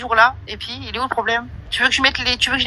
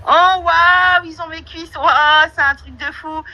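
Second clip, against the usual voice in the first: high, loud wows with dropped asides; exaggerated sarcastic astonishment; mock amazement; 6 semitones higher, 3 dB louder, much slower than usual. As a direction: feign huge shock to ridicule the fuss. Sarcastically mocks the caller's scandalized reaction.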